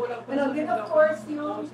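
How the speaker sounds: ordinary talk, nothing marked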